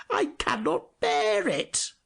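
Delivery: pewter soldier. A narrator's reading. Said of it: "said the pewter soldier".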